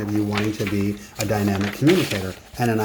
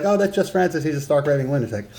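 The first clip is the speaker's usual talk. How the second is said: dismissive shrug; 5 semitones higher than usual. Retold or imitated. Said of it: "they'll be like".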